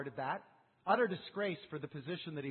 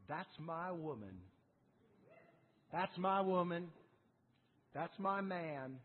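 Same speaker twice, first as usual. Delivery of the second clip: fond, proud father; slower than usual. Acted. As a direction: savor each word like a proud parent. God delights in bold prayer.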